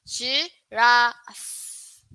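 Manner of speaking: giraffe said slowly for the class; "Giraffe" with a long "ra", stretched out; model pronunciation. Shown as a demonstration. Teacher modelling "Giraffe" for students, clear and slow. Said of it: "this is the I P A".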